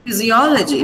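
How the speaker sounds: "Physiology" as fizzy-O-luh-jee; "Physiology" with weight on the third syllable; stress before -logy. Shown as a demonstration. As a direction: hit the O in "Physiology". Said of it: "this particular syllable is stressed".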